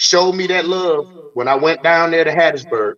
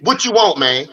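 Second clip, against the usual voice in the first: mildly exasperated, pitched up; irritated; 5 semitones higher than usual. Acted. Acting out his reply to long text messages, irritated. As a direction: demand it with acted impatience. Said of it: "now I'm getting irritated".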